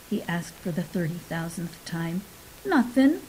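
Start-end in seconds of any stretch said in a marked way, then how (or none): 2.7-3.2 higher-pitched, lightly grumbled retort; child's grumble. A narrator's reading. Abby answers her father's questioning, grumbling. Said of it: "grumbled Abby".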